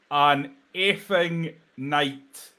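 usual speaking voice

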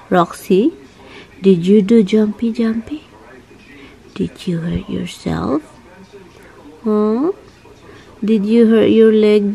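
cooing concerned pet talk. Real, not acted. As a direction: fuss over the dog gently. Baby talk to the dog.

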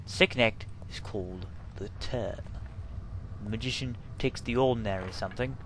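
lightly done Cockney-ish Caine voice; Michael Caine impression. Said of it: "doesn't sound like a Bristol accent".

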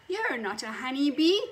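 loud accusing guards; guards shouting. Acted. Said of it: "they shouted".

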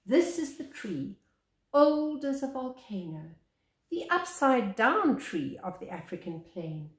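measured picture-book reading, lingering on each line; story narration. Acted. Reading the baobab picture book aloud to children, storyteller voice. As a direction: read it like a gentle bedtime tale.

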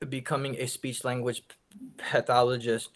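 real stutter, a block on the p; catching on the p. Real, not acted. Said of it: "I have a stutter".

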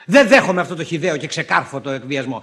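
loud, defiant protest; indignant refusal. Acted. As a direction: reject the blackmail forcefully. Husband refuses wife's ultimatum. (αγανακτισμένη, δυνατή άρνηση)

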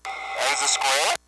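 slow, confused, oxygen-starved; breathless at high altitude. Real, not acted. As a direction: hypoxic and unsteady. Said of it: "you're starting to have a little shake there".

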